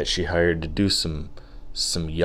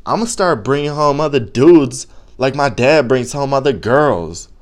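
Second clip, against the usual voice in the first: sassy, higher-pitched girlfriend imitation; mock ghetto girlfriend; 5 semitones higher, 4 dB louder than usual. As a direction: imitate a teen girl lashing back with attitude. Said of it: "she just got super ghetto".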